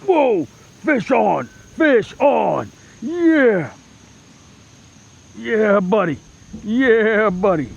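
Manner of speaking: very loud, high, thrilled yells; excited shouting. Real, not acted. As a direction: shout with joy as the fish hits. Fish strikes the lure.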